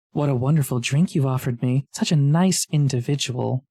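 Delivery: lightly voiced snake, laying on praise; flattering snake. Snake thanks adventurer for water, lightly put-on flattering voice. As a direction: flatter them as a sly snake.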